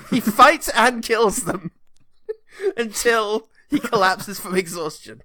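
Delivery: slow, laughing, mock-solemn emphasis; laughing re-read. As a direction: savour each word while cracking up. Re-reading the quote for laughs.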